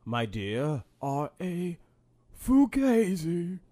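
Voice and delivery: slow, drawn-out theatrical delivery; mock-grand putdown. Co-host joining the wench bit, mock-grand and drawn out. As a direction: stretch out the last word grandly. Joins in the mock-archaic act.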